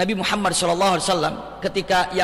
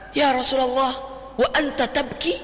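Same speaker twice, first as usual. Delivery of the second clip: astonished question, raised in pitch; astonished companions; 4 semitones higher than usual. Retold or imitated. Companions asking the weeping Prophet, astonished. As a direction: ask in mild disbelief. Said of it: "Seolah-olah heran ada Nabi nangis".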